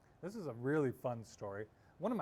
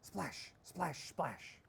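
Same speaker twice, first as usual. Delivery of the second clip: slow splashes; 2 semitones higher, much slower than usual. A narrator's reading. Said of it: "rowed slowly".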